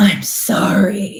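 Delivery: mock, extremely sarcastic tone. Acting out an adult toddler's apology: imitating an extremely sarcastic apology. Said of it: "an extremely sarcastic apology".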